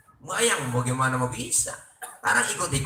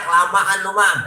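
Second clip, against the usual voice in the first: mock shout; 3 semitones higher, 6 dB louder, slower than usual. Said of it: "Makmum teriak".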